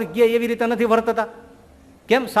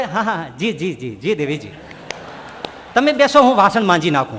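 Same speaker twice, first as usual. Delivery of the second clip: meek henpecked husband; 2 semitones lower than usual. Retold or imitated. Imitating meek husband to wife.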